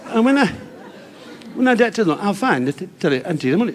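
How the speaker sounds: speech defect voice. Retold or imitated. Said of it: "talk like that".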